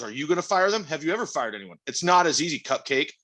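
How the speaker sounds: lightly imitated annoyed challenge; mock irritated boss. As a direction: act out a boss getting mad. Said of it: "he gets mad and goes".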